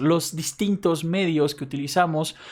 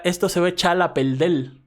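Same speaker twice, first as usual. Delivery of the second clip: put-on Cuban accent. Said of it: "pues dirá".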